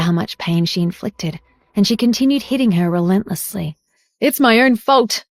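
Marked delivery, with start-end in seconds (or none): 4.2-5.2 a touch of a raised cry; shouting. A narrator's reading. Grandmother shouts in self-reproach. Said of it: "she shouted".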